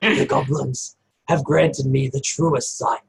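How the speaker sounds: hint of a wise goblin addressing the party; goblin Cass. DM voicing goblin Cass to the party, lightly voiced, measured.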